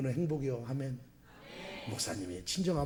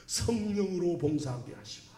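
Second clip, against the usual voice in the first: prayer voice; 4 dB quieter than usual. Shown as a demonstration. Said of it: "항상 기도할 때 그렇게 해요".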